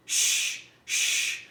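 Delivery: gently shushing a crying friend; shushing whisper. A narrator's reading. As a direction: hush her in a whisper. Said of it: "said Mildred".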